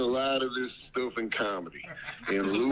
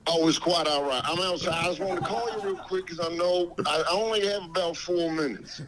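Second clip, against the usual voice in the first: Dave Chappelle voice; faster than usual. Pretend. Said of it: "You sound just like him".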